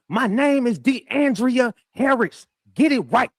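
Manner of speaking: very high, slow mock yell; drawn-out high imitation of a courtroom outburst; retold yell. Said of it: "she just yelled out".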